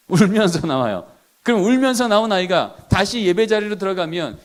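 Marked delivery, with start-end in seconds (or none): 0.1-1.1 울면서 said in a mock-tearful voice; mock crying. Shown as a demonstration. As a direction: act out the child leaving in tears, lightly. (우는 시늉을 하듯 "울면서"를 말하기)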